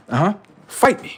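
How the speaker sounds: high taunting yell; taunting shout. Real, not acted. Taunting the chat to fight.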